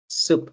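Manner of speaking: soup said with a long oo, like "sup". Shown as a demonstration. Teacher modelling soup for the class, long oo. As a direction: model soup with a clear oo vowel. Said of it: "aquí pronunciamos soup".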